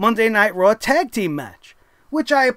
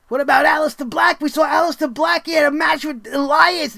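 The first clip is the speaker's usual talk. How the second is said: raised, higher heckling voice; mock heckler shout; 5 semitones higher than usual. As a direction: shout the question like a fan in the crowd. Arguing with imagined critic.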